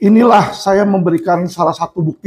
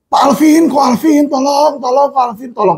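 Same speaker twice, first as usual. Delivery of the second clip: panicked begging; 7 semitones higher than usual. Retold or imitated. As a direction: beg him desperately over the phone. Inmates phoning him begging for help. (memohon dengan panik)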